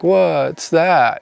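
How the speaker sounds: high, curious little bird; puzzled bird voice. Retold or imitated. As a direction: voice a confused bird peering at you. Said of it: "The birds will kinda look at you like".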